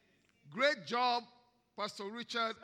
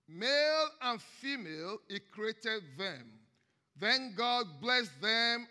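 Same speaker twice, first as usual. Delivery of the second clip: scripture reading; 4 dB louder than usual. Acted. Reads Genesis aloud to congregation.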